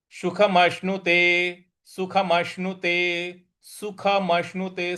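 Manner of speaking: सुखमश्नुते with a clear श before न; pronunciation demo. Shown as a demonstration. Teacher drills the last word, careful demo. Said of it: "उसका श बोलेंगे".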